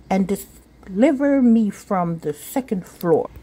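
a hint of a bright kid arguing like a lawyer; eager little girl. Sophia pitching a giraffe to mother, lightly childlike and earnest.

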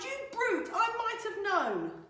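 high, loud indignant piglet; outraged little pig; indignant cry. Acted. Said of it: "Pig cried".

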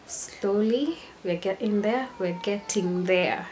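slipping lightly into a European accent; measured words with a hint of European accent. Real, not acted. Talking up her influencer progress, in a slight European accent. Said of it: "an European accent".

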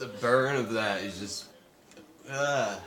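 strained after a chug; gasping after chugging. Real, not acted. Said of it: "Chugging sucks".

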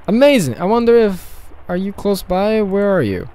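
put-on high, loud, eager Russian accent. The speaker delighted at reaching a stranger, Russian accent. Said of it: "I'm doing a Russian accent".

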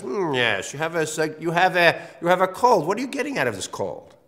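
mild mock doctor's probing tone; knowing analyst. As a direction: play the sly therapist who already knows. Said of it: "The psychoanalytic question is".

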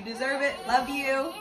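real tears breaking through; choked-up farewell to her cousin; teary. Real, not acted. Tearful cousin birthday message.

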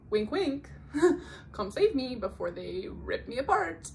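bat your lashes and beg to be saved; flirty plea. Retold or imitated. Heroine asking the strongest prisoner to save her, coy. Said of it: "and then she's like".

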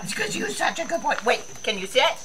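high, fast pet talk. Real, not acted. Owner cooing at her dog, high sweet baby talk.

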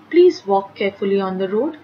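polite request. Shown as a demonstration. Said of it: "It's a request".

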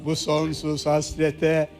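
slow, heartfelt poem reading; poem recitation. Acted. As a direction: recite it slowly like a love poem. Recites love poem slowly. (ağır, duygulu şiir okuma)

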